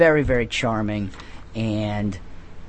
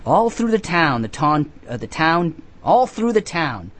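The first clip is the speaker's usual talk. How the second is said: put-on reading to children; 3 semitones higher than usual. Reading storybook aloud.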